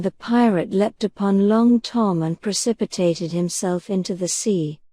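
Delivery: ordinary delivery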